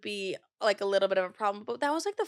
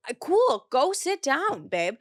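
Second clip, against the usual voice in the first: higher, louder sarcastic brush-off; mock sweetness with a bite; sarcastic dismissal; 5 semitones higher, 4 dB louder, slower than usual. Brushing off her sister who won't take photos, sarcastic. Mocking sister in retold fight.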